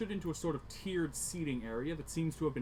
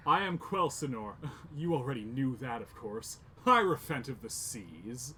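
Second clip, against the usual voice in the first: booming voice; 5 dB louder than usual. Acted. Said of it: "says in a booming voice".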